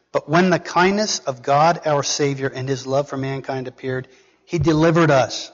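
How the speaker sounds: emphatic, declarative Bible reading; scripture reading. Acted. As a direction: read the verse out firmly to a congregation. Reads scripture aloud to congregation.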